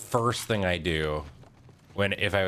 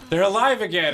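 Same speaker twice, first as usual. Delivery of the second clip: mock joyful cry; 12 semitones higher, 8 dB louder than usual. Grieving woman sees zombie family.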